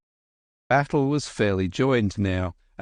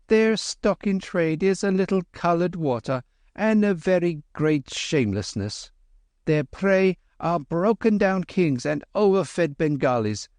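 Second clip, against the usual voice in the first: cool, lofty scorn, pitched higher; scornful Kim; 8 semitones higher than usual. Acted. Kim mocking the drug vendor, measured scorn. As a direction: sneer at the quack with measured disdain. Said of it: "said Kim with measured scorn".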